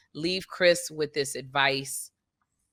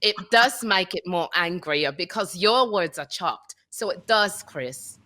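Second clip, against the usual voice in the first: slow, chopped mock English accent; word-by-word faux English accent; choppy mock English. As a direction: argue back in deliberately choppy put-on English. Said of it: "make your sentence choppier".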